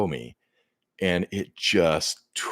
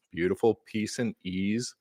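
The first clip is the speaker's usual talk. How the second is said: ordinary talk, nothing marked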